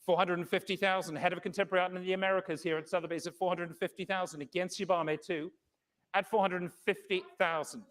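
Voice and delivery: brisk, measured bid calling; fine art auctioneer. Acted. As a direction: call the bids steadily, room to room.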